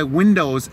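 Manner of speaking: "Windows" with a clear -ows ending, no r; standard pronunciation. Retold or imitated. Quoting buddy about his computer, "Windows" with proper o ending. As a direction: say "Windows" with the full o sound. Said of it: "He'll actually pronounce it properly".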